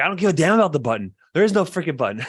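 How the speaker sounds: high, loud, exasperated retort; exasperated wife. Retold or imitated. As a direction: act out an irritated wife firing back. Acted exasperated wife's retort.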